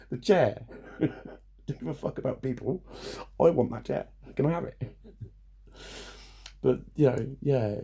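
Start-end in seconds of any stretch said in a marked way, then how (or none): none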